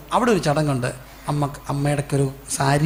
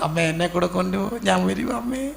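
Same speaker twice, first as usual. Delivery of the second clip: imitated crying child; 2 semitones higher than usual. Child calling back to mother at the school gate, mock-tearful. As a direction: mimic a child pleading tearfully, pitch climbing. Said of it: "കരഞ്ഞുകൊണ്ട്".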